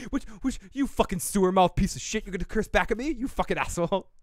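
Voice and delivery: mock indignant chef's retort; Gordon Ramsay. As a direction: imitate a chef outraged at backtalk. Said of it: "I like when people swear back".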